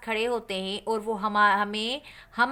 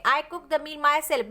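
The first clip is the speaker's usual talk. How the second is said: slow dictation; 2 semitones higher, much slower than usual. Shown as a demonstration. Dictates the example sentence.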